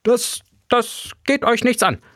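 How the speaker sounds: high, stammering little creature voice; stuttering professor. A narrator's reading. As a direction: trip over the first word, caught out. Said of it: "stotterte die Nacktkrötkatze".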